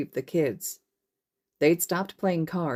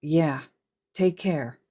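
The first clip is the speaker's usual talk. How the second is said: quiet echo; much slower than usual. Acted. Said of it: "Izuku echoed".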